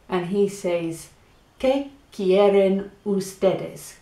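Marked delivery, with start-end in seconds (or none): 1.6-4.0 slow model phrase. Shown as a demonstration. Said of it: "So how do you say it again?".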